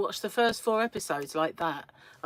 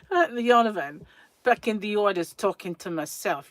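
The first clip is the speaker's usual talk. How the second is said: put-on accent from The Penguin, louder; 6 dB louder than usual. Viewer aping the show she binged, in a Penguin accent. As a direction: talk like the characters in The Penguin accent. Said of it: "got me talking like it".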